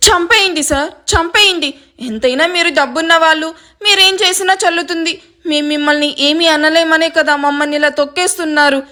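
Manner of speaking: melodramatic wronged-victim lament; mock crying. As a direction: play the martyr, lightly wailing. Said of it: "గట్టి గట్టిగా ఏడుస్తూ ఉంటుంది".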